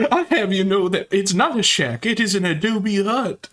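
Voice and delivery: mock indignant Ralph. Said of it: "mock-defending Ralph's shack".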